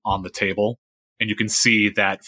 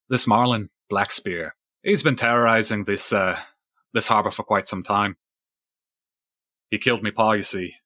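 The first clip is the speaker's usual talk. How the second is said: lightly voiced weathered fisherman recounting a grudge; a hint of salty sea-dog storyteller; old sailor Fisheye.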